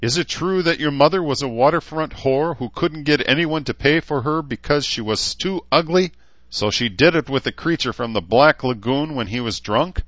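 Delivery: high, loud jeering insult; mocking taunt. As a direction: needle him, savour each insult. Knight's insulting taunt at orc.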